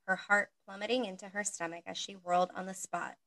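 steady, monotone read-aloud narration; monotone story reading. Acted. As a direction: read the story plainly and evenly. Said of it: "you're gonna get this monotone voice".

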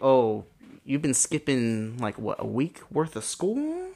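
slow, stretched words rising at the end; drawn-out mock questioning; mock parental disbelief. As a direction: play a parent questioning the kid, lightly. Acted parent confronting skipped school.

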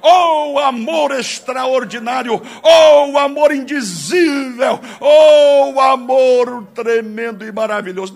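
gritando o louvor, cada vez mais alto; exclamação fervorosa. Real, not acted. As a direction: proclame o amor aos brados. Pregador exalta o amor de Deus. (brado de louvor fervoroso)

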